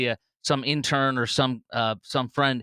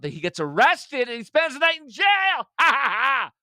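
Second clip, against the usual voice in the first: high, loud cackling laugh through the words; laughing with glee; 12 semitones higher, 4 dB louder than usual. Real, not acted. Vlogger gloating over a rival's arrest, laughing hard. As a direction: crack up with real delight, much higher and louder.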